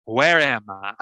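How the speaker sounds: put-on contestant boasting to a talent show judge in a Southern accent; Bill Clinton impression. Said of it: "my name's Bill Clinton".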